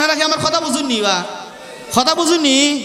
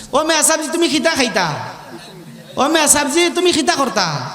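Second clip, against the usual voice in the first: Sylheti dialect; 4 semitones higher than usual. Retold or imitated. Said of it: "Sylheti ভাষাও একটা মজা".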